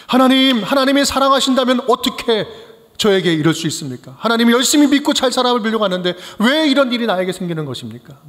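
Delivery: voicing a doubter's lament to God; pleading question to God. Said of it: "의심의 질문을 하나님께 던지게 됩니다". (하나님께 따지듯 호소하는 목소리)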